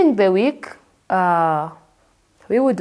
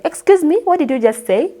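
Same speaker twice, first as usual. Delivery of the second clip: confused customer; 7 semitones higher, 3 dB louder than usual. Retold or imitated. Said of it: "the customer would be like".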